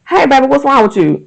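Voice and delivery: lightly voiced caring grown-up checking on a child; gentle concerned adult. To a withdrawn child, a lightly voiced gentle coaxing question. Voicing someone asking a kid.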